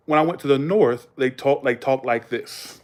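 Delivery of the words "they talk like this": lightly put-on Boston accent. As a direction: talk slow with a touch of Boston. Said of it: "it's more Boston".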